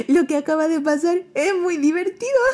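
high amused possum; little possum voice. Acted. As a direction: say it delighted. Pepe amused.

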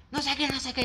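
mock hysterical. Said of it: "empezó a gritar histéricamente".

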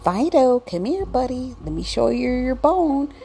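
high-pitched pet-owner voice; calling the dog. Acted. Owner calls Fido over to show his bone, high-pitched coaxing.

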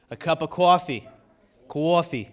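lightly put-on New Jersey "coffee"; playful, imperfect Jersey accent; attempted Jersey accent. Shown as a demonstration. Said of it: "Trying the Jersey accent".

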